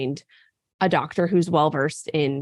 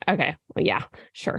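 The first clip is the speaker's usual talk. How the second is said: half-hearted agreement; 3 semitones lower, 4 dB quieter than usual. Retold or imitated. Retold reply to her doctor.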